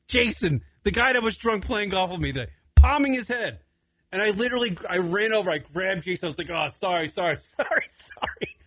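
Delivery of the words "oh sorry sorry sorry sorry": fading, whispered sorries; hushed apology. Retold or imitated. Pulling drunk Jason away from the table, a fading whispered apology. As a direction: apologize under your breath, trailing off.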